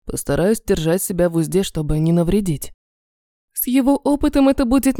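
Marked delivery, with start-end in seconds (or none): 0.0-2.7 мужской голос. Acted. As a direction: lower male voice, restrained. Эмин обещает, мужской голос. (низкий сдержанный мужской голос)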